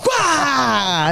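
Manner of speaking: high, drawn-out "bah" yell; mock roar. Wrestler launching the move after apologizing, mock yell.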